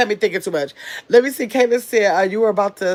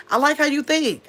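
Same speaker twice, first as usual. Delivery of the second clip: reading it her way; 7 semitones higher than usual. Shown as a demonstration. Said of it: "I think she said it like that".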